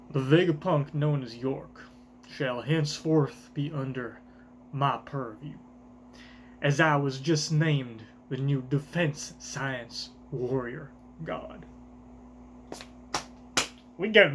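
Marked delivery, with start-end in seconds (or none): 0.1-11.6 Garling's voice. Acted. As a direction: announce it like a ruler. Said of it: "this accent ... for my boy Garland".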